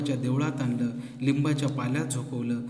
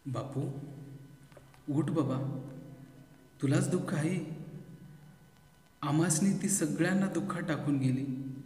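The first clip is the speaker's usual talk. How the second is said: heavy voice; 3 semitones higher, 5 dB quieter than usual. A narrator's reading. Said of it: "आईनं जड गळ्यानं म्हणावं".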